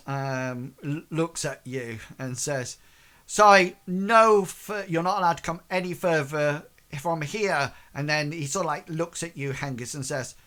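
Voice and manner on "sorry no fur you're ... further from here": lightly voiced tough guard, louder at first; bully guard. Bully guard blocks the way at the front, lightly voiced officious firmness. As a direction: push back like a bullying guard. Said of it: "tough bully type of guard".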